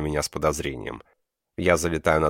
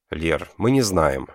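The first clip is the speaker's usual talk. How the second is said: exhaled; 3 dB louder, slower than usual. Acted. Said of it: "выдохнула нимфа".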